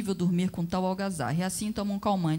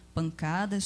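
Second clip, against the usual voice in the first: plain reading voice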